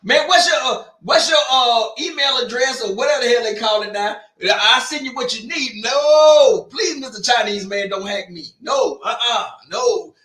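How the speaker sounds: mock pleading.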